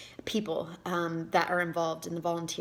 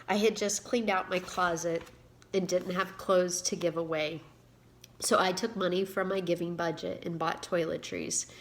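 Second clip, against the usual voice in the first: reading her own book aloud, a touch livelier than her chat; story reading. Acted. Author reading her story to viewers, expressive narration. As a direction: read the story to your viewers with gentle storytelling lift.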